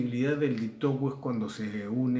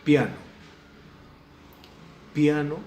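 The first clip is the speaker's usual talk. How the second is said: Piano called out loud and firm; teacher calling out the example word; 5 semitones higher, 8 dB louder than usual. Shown as a demonstration. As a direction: announce the example Piano boldly. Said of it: "ponemos un ejemplo concreto".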